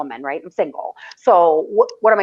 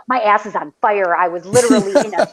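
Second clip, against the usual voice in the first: son laughing. Retold or imitated. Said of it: "He's like".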